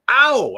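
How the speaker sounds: loud, high cry of pain; pained yelp. Real, not acted. Streamer accidentally scratches a sore spot, real pained yelp. Just scratched his injury.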